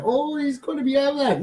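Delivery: high-pitched imitated fretting; mock worry. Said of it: "so don't worry".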